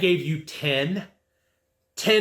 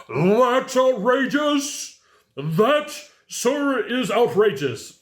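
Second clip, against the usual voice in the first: outraged client; 8 semitones higher, much slower than usual. Retold or imitated. Client protesting the eighty-five thousand price, mock outrage. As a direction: stretch it out like a scandalised buyer.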